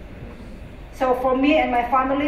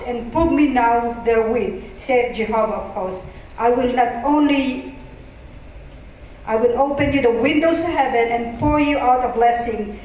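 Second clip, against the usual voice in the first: louder, emphatic Bible reading; scripture reading; 4 dB louder than usual. Acted. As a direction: read the verse out firmly to the room. Reads scripture aloud.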